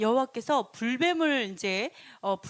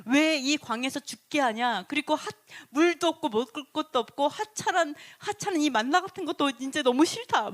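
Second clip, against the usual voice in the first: acted grumbling, pitched up on the list of grievances; resentful complaint; 4 semitones higher, 4 dB louder than usual. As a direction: complain bitterly as the fed-up crowd. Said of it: "하나님과 모세를 향해서 원망을".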